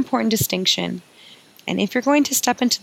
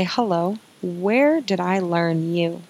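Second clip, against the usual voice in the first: gentle curious greeting; slower than usual. Pretend. Coach showing listeners how to greet their stories, slow and gentle. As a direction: greet the old story kindly, slowly. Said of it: "to say".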